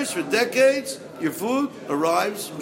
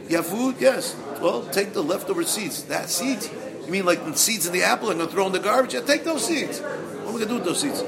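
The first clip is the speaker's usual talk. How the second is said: put-on Yiddish accent; 3 semitones higher than usual. Acted back-and-forth over seeds.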